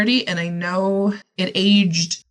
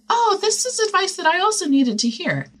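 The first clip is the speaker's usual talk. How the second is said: sudden realization; 12 semitones higher than usual. Retold or imitated. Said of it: "and realize".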